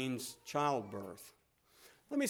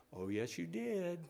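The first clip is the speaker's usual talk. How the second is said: gentle knowing reply; 5 dB quieter than usual. Retold or imitated. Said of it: "That's the way God responded".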